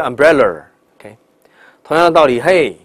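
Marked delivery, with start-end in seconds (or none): 0.0-0.6 umbrella with a curled American r; mock over-rolled umbrella; umbrella, tongue curled on the r; wrong umbrella. Shown as a demonstration. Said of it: "而不是".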